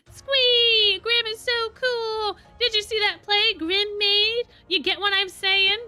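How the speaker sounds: very high, squealing adoration; gushing fan. A narrator's reading. Grim imagines fans fawning over him, gushing fan. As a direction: gush like a starstruck fan.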